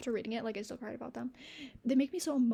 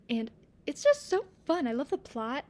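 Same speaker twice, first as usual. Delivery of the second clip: delighted squeal of fun; gleeful; 3 semitones higher, 5 dB louder than usual. Real, not acted. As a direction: gush with glee. Gushing about a fun book.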